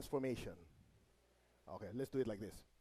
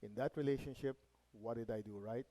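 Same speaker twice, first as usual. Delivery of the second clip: reflective thinking; 5 semitones lower, 5 dB quieter than usual. Acted. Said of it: "go into meditation and think".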